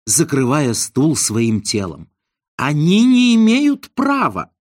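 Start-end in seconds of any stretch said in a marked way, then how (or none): 2.6-4.5 high, loud protesting cry; high panicked protest; outraged cry. A narrator's reading. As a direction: shriek in outrage to save the chair. Izn shields chair, shouting.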